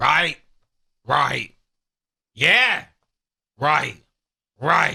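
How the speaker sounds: rough, creaky put-on voice. Mocking a podcaster for agreeing with everything: Tim Dillon impression. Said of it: "This is my impression of Tim Dillon".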